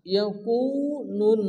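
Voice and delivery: "ইয়াকুনুন" slowly, the ওয়াও held long; slow, careful "ইয়াকুনুন"; madd demo. Shown as a demonstration. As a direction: stretch the u of "ইয়াকুনুন". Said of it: "ওয়াও মাদ্দা এক আলিফ পরিমাণ টান".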